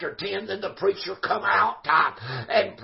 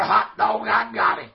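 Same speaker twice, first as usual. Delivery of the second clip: retold holler; 4 dB louder than usual. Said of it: "and holler".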